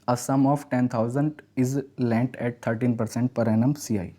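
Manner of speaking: reads the question word by word, very slowly; slow question reading. Shown as a demonstration. Teacher reading the exam question to students, slow and deliberate. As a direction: dictate the problem slowly to students.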